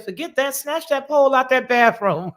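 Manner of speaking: mock order with a loud punch on snatch; brisk imitated command in own voice; retold sassy order. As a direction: quote a brisk, bossy homegirl. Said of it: "Homegirl said".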